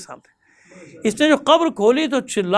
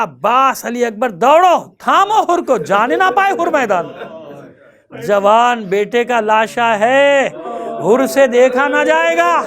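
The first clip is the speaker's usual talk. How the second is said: a raised urgent call, peaking on تھامو حر کو; mock call out. Husain calling to Abbas and Ali Akbar, raised urgent call. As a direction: cry out to stop Hurr in the preacher's own voice. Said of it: "چلا کر کہا".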